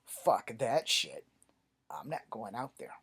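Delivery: flatly refuse, punching the first words slow and loud; no-way-am-I-doing-that attitude; emphatic refusal. Acted. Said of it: "here's where my black side kicks in".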